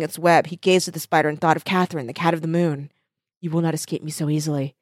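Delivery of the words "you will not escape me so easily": soft, breathy whispered threat; whispered vow. Acted. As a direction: hush it like a secret promise. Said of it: "he whispered".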